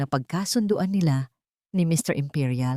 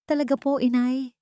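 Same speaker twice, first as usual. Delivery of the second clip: joyful disbelief; 7 semitones higher than usual. A narrator's reading. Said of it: "Ang boses ay puno ng hindi makapaniwalang saya".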